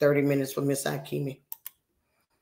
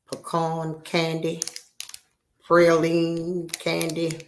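tag; slower than usual. Real, not acted. Reverent praise of candy.

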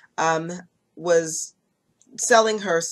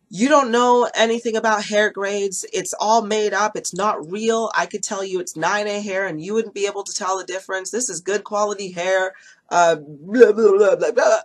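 louder at first, a mildly indignant retort read aloud; mock furious text; 4 dB louder than usual. The hair seller snapping back at the customer by text, mildly angry. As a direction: act out the seller's huffy texts, only mildly heated. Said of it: "there was a furious".

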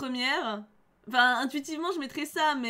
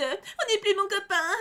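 higher, slow whiny mimicry; mock whiny voice; 6 semitones higher, slower than usual. Mocking the rude girl's take on Kero's problem, whiny. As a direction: mimic a sulky kid.

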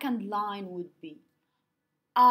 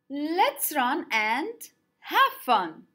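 slow syllable count; 2 semitones higher than usual. Shown as a demonstration. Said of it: "Five syllables".

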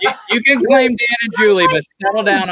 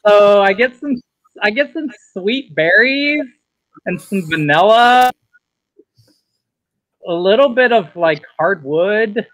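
put-on Valley Girl accent. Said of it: "reviews in a Valley Girl accent".

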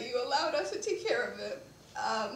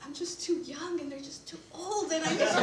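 quoting while laughing; 3 semitones higher, 6 dB louder than usual. Retold or imitated. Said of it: "He's like".

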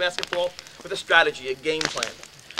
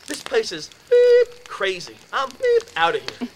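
louder, higher, slow fed-up rant; retold fed-up outburst; 8 semitones higher, 8 dB louder, slower than usual. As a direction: storm out of the room spitting it. Roommate storms off angry.

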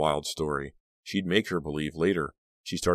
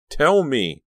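much higher, loud command; demanding; 10 semitones higher, 9 dB louder than usual. A narrator's reading. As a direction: force the answer out of her. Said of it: "Danielle demanded".

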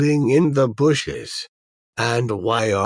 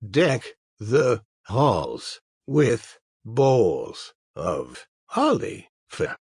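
grandpa voice. Acted. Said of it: "Why do I sound like a grandpa?".

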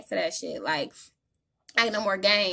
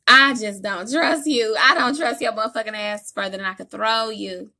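mock distrust; 2 semitones higher, 7 dB louder than usual. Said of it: "She like".

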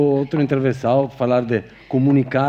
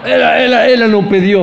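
excited; 9 semitones higher, 7 dB louder than usual. Real, not acted. The speaker excitedly interjects.

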